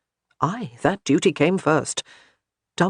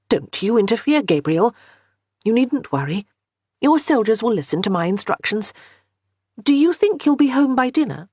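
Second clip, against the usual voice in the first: higher, lightly voiced commanding wife; bossy wife; 6 semitones higher, 3 dB louder than usual. A narrator's reading. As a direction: brush off his objection. Johanna ordering.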